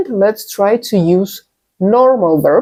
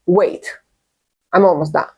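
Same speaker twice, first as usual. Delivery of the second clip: a hint of irritation at being interrupted; curt, impatient; 3 semitones lower than usual. Shown as a demonstration. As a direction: clip "Wait, I'm almost done." like you're annoyed. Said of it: "Your tone, your intonation changes".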